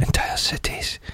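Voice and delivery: hushed, slow trailer-style whisper; dramatic whisper. Acted. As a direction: breathe it like a doom-laden movie trailer. Echoing the doom line.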